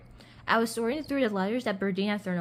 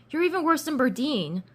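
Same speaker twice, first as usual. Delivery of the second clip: higher, louder accusing jab; angry yell; 7 semitones higher, 5 dB louder than usual. A narrator's reading. Narrator keeps quarrelling with Sasha, yelling angrily. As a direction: push the insult up high and loud. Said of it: "I yelled at Sasha".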